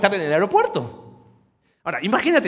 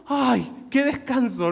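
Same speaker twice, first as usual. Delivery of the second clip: sigh of relief; 6 semitones higher, much slower than usual. Retold or imitated. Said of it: "fue así como".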